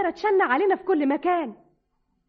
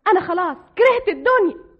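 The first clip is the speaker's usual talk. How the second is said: louder, fed up with the world; despairing outburst; 3 semitones higher, 6 dB louder than usual. Acted. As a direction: blurt it out in despair. (صرخة يأس)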